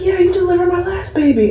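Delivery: high bright mom voice; imitated mom. Mom telling the nurse about her last baby, high bright voice. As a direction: play the proud returning mom.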